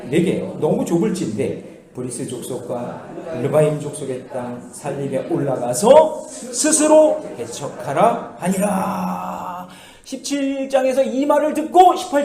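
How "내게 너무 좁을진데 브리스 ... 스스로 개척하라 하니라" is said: scripture reading. Real, not acted. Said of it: "시작".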